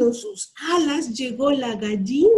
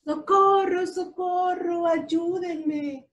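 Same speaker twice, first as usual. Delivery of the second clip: higher, urgent calls for help with beeps; little truck crying for help; 6 semitones higher, slower than usual. A narrator's reading. Little blue truck calling the farm animals for help. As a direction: plead for rescue, beeping the horn. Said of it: "gritó el camioncito Azul".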